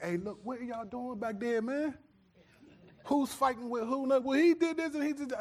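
high, strained dad calling to the back seat; exasperated father shouting over his shoulder; dad yelling back to the kids. Retold or imitated. Dad in the driver's seat calls to squabbling kids in back, exasperated. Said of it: "I'm looking in the mirror like".

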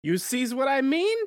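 put-on Italian mobster accent. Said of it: "strong Italian accent".

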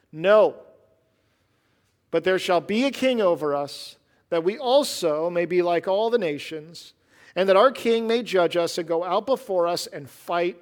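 loud, stubborn cry for a king; demanding crowd. Acted. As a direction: insist on it like a defiant crowd.

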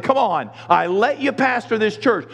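God exasperated. Retold or imitated. God scolds the whining pastor, mock exasperation. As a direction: remonstrate with a complainer. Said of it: "and God is saying".

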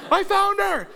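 dad proudly announcing the find; triumphant shout. Retold or imitated. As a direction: announce it like a hero. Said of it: "I was like".

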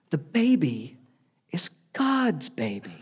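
hushed, half-laughing confession; Mary owns up to Joseph in a sheepish whisper. Retold or imitated. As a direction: drop to a breathy secret, stifling a laugh. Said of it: "Mary has to step in".

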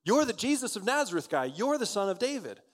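high, loud cry of recognition; acted outburst, pitched well up; excited recognition. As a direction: call out like someone spotting a celebrity. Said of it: "Someone recognizes him. ... So this woman cries out".

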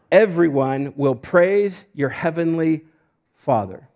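slow, emphatic pulpit reading; deliberate phrases, drawn-out key words; scripture reading. Acted. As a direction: read the verse out with weight. Reads scripture aloud to church.

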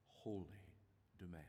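unhurried, earnest public prayer; prayer of confession. Real, not acted. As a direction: confess to God haltingly, phrase by phrase.

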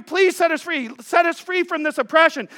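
high, urgent begging to be freed; pleading. Acted. Israelite slaves begging to be freed from oppression, pleading. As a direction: plead for release, pitch lifted. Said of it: "They're begging".

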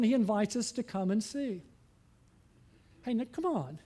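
ordinary delivery

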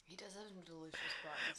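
breathy whispered compliment. Real, not acted. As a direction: whisper it with relish. Whispered lewd agreement.

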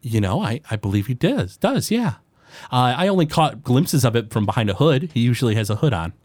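a small forest gnome greeting a customer; gnome baker. Acted.

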